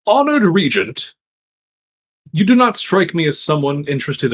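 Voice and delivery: lightly acted formal address, measured pauses; formal petitioner to the Regent. Petitioner asking the Regent outright what he wants, lightly formal. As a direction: put on a touch of courtly directness, deliberately phrased.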